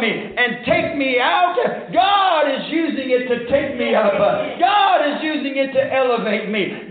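forceful, emphatic pulpit delivery; fervent preaching. Real, not acted. Preacher declaring what morning means, fervent preaching. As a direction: drive each declaration home like a revival preacher.

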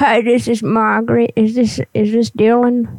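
lightly voiced old granny; a hint of a little old lady. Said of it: "I gotta get my old granny voice up here".

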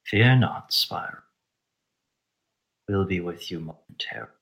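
measured, hushed reassurance with long pauses; Fenix. Acted. Fenix answers Spyro's magical message, quietly reassuring. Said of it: "you hear the voice of Fenix".

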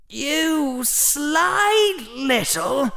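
put-on very slow, high, sputtering boy; outraged boy. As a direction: splutter at the trickster. Harry outraged.

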